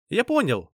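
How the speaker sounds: high-pitched happy exclamation; joyful cry. A narrator's reading. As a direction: cry out with sudden delight. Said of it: "радостно крикнул он".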